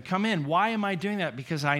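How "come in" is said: pleading. Retold or imitated. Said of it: "And I'm pleading with him".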